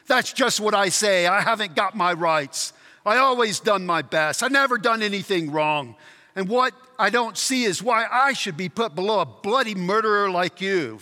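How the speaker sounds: mildly indignant self-righteous ghost; rough ghost. Acted. Ghost resents ranking below a murderer, indignant. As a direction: press the grievance as the wronged chap. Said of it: "These are two very rough characters".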